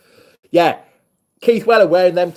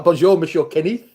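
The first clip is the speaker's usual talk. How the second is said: French greeting. Real, not acted. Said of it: "trying to speak French to him".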